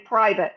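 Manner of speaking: "private" with the T swallowed. Shown as a demonstration. Coach contrasting the American way, T dropped. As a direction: let "private" trail off, no T. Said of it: "instead of the U S way".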